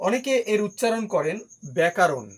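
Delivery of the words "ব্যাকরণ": ব্যাকরণ with a long 'a' after k, byæ-kaa-ron; common mispronunciation. Shown as a demonstration. Teacher quoting what many people say, mispronounced with 'kaa'. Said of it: "এটা ভুল উচ্চারণ".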